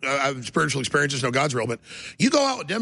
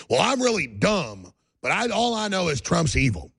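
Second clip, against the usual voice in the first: mock dumb kid; 4 semitones higher than usual. Dad mimicking kids at his daughter's school, mock dumb kid. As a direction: imitate a clueless kid, drawing out the first words. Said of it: "you hear another kid go".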